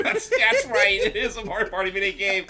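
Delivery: laughing through the words. Real, not acted. Laughing at the minigame reveal.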